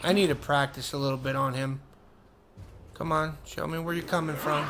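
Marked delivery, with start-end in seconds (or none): 3.0-4.7 soft coaxing. Real, not acted. Coaxing enemy softly.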